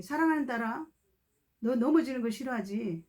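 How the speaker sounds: gentle comfort to a fearful daughter; preacher comforting a young woman; reassuring blessing. Retold or imitated. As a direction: reassure her she will not fall. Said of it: "이렇게 말해요".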